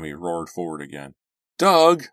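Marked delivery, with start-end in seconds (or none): 1.6-2.1 high shouted name; loud call. Acted. Passenger shouting at reckless driver, loud alarmed call. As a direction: yell his name in alarm. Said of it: "I called from the back seat".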